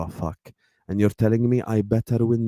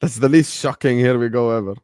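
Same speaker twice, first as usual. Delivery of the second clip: louder, punchy delivery of the line; emphatic; 4 dB louder than usual. Real, not acted. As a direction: hit it hard like a punchline. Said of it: "repeated plainly after".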